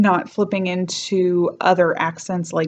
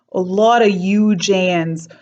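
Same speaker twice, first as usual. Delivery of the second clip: slow, off-target New York accent attempt; New York accent that slips; wrong New York accent; 4 dB louder, slower than usual. Shown as a demonstration. New York accent, a first try she calls wrong. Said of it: "that's wrong".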